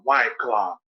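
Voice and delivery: dropped low, dark and menacing, like a hardcore drug; a comic selling the drink's name as a hardcore drug, low and ominous. Pretend. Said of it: "it sounds like a hardcore drug".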